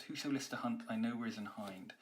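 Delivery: quick, sprightly read rushing unstressed syllables; fast. Shown as a demonstration. Teacher showing the line's speed to students, quick and sprightly. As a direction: race through it excitedly. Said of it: "So it's very fast".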